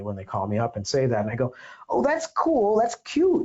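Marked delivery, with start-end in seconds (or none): 1.9-3.4 sarcastic. Retold or imitated. Mocking reply to attorney.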